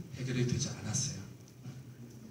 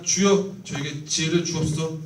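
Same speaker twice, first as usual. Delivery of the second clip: mock fervent prayer; 5 dB louder than usual. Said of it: "그냥".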